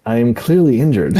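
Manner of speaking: mock-deadpan line broken by laughter; laughing through a retold deadpan complaint; laughing quote. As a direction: say it while laughing. Quoting funny injured movie line.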